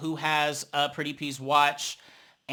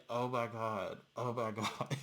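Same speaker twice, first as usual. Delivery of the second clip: soft, lower mock "oh my God"; mock gasp; 6 semitones lower, 13 dB quieter than usual. Mocking the performers' reaction, quiet and lower. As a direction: imitate the performers' hushed shock. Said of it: "They're just like".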